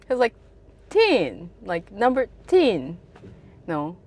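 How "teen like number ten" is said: imitated Kiwi "ten", vowel raised toward "Teen"; "Teen" for ten, New Zealand style. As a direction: explain "number ten" with the e said as a short i. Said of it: "because he said tin".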